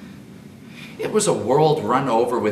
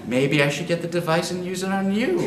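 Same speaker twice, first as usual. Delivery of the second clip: laughing; 8 semitones higher, 4 dB louder than usual. Acted. Disgusted teasing through laughter.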